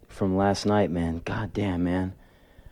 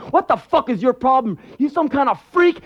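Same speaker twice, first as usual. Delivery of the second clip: very high-pitched mock outrage; angry boss; 4 dB louder than usual. Boss spitting on worker over scars, acted angry outburst. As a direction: lay into him like an outraged boss.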